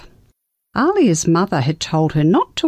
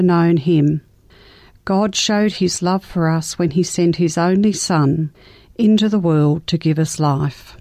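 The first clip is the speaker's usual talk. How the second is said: scripture reading. Acted. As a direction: read it like a gentle sermon. Reads scripture passage aloud.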